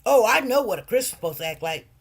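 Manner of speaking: fast, loud smug know-it-all; quick loud self-righteous mockery. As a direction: mimic a preachy critic. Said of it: "They'll tell you".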